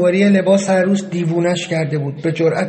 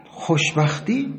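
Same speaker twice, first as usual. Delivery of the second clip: slow, quiet scoff at the word; a quiet bitter echo of "خوشبختی"; bitter disbelief; 5 dB quieter, slower than usual. A narrator's reading. Narrator scoffs at their happiness.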